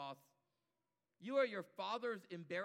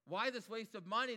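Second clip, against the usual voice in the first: louder protesting outburst; crying out; 4 semitones higher, 6 dB louder than usual. Acted. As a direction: call it out in indignant protest. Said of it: "begins to cry out".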